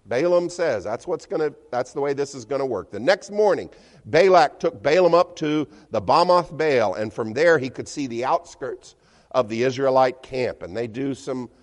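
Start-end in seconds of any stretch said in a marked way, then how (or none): none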